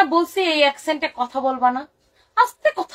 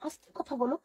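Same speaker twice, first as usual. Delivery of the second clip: hushing husband; 7 dB quieter than usual. Retold or imitated. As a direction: shush her, dropping to near nothing.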